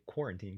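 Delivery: quarantine said with lips never touching; lips not touching. Shown as a demonstration. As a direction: say quarantine keeping the lips apart. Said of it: "'cause you don't put your lips together".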